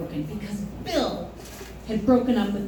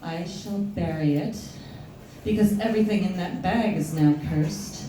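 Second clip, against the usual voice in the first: solemn psychic; 5 semitones lower, 3 dB quieter than usual. Acted. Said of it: "she goes".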